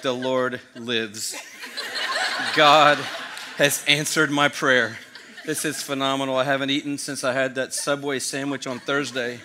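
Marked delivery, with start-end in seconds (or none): 0.0-5.0 slow, swelling cry of joy, loud on God; mock rapture over free food; overjoyed crowd. Hungry diners thanking God for the eclair, ecstatic. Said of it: "These people are like".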